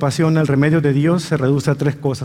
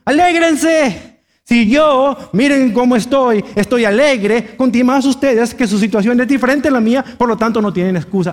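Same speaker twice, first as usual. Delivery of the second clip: Paul's fervent exhortation; 6 semitones higher than usual. Retold or imitated. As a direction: preach it like a chained man rejoicing anyway. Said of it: "este hombre está diciendo".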